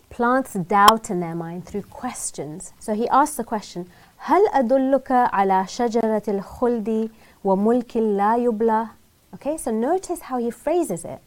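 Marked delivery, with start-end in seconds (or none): 4.3-8.9 Quranic recitation. Acted. Quoting the Quran in Arabic.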